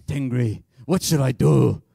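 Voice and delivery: loud, overblown plea to a god; mock-anguished young self praying; mock eleven-year-old self. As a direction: cry out to the sky, hammed-up. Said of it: "That's how I sounded when I was eleven".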